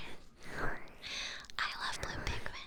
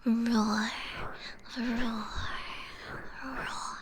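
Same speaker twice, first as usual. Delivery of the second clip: whispered growl; much slower than usual. Shown as a demonstration. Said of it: "I can growl in your ears".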